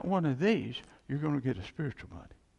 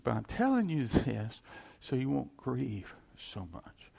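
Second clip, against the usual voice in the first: the same consoling words, a bit quicker and less drawn out; plain comfort; 2 semitones lower, 3 dB quieter than usual. Retold or imitated. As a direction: say it again, simply and steadily. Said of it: "he said".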